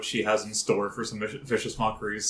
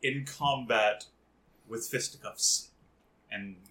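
grand announcer; 4 dB louder than usual. Acted. Slow grand announcer parody.

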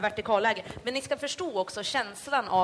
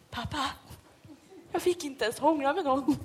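sulky complaint; 3 semitones higher than usual. Retold or imitated. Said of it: "första jag sa till pappa".

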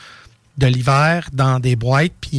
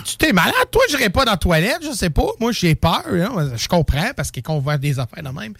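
scared mother; 5 semitones higher than usual. Retold or imitated. Mother scared, refusing toilet.

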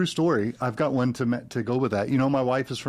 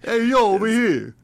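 loud, higher mobster-style Chicago call; bad Chicago accent, pitched up; fake Chicago accent; 8 semitones higher, 5 dB louder than usual. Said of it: "I put on this fake Chicago accent".

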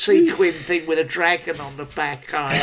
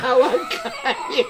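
resigned laugh; 7 semitones higher, slower than usual. Retold or imitated. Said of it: "shelling out".

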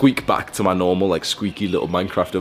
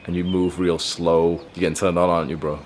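slow, slightly lowered seduction voice; slow resonant masculine; 2 semitones lower than usual. Shown as a demonstration. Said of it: "activate that slow, resonant, masculine voice".

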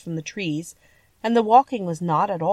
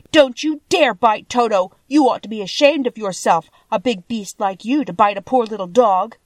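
put-on scolding girl, higher and louder; indignant cry; 4 semitones higher, 6 dB louder than usual. A narrator's reading. Dorothy scolds the lion for going after Toto, indignant cry. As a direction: cry out and shame the culprit. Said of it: "while she cried out".

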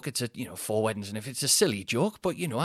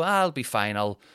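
lightly voiced easygoing wife; a mild take on her breezy shrug; imitating wife. Husband imitating his wife's relaxed tone, lightly. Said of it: "That's how she sounds".

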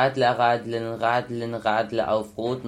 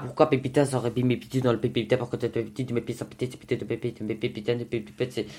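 dry mouth, fast and slurring; stumbling through a dry mouth; 5 dB quieter, much faster than usual. Real, not acted. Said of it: "j'ai la bouche très sèche et je peux pas articuler". (bouche sèche)

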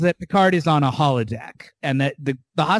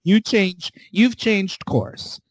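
mock angry Raffi; 5 semitones higher than usual. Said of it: "She's like".

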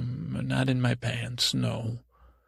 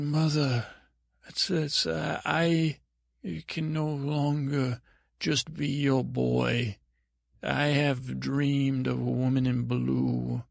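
solemn declaration. Acted. Acted solemn confession to mother.

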